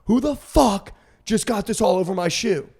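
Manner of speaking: imitating her outraged demand; mock outraged girl. Girl in the club demanding who spilled on her shoe, mock outrage.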